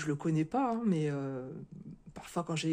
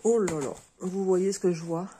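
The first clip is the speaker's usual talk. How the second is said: excited gasp; 7 dB louder than usual. Real, not acted. Thrilled at what she finds in the box.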